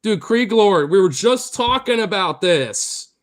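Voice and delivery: loud, high, laughing disbelief; real excited shouting. Real, not acted. Streamer reacting to a viewer's surprise, loud excited shouting. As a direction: shout it like you can't believe it.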